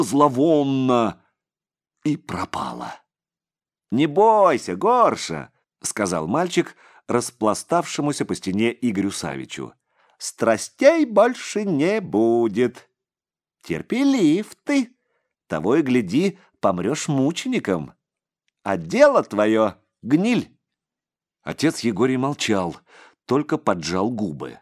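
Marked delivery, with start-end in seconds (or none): 3.9-5.5 put-on higher, louder uncanny boy; a creepy child soothing a grown man; eerie child voice. 10.2-20.6 put-on eerie child voice. Boy mocking the priest.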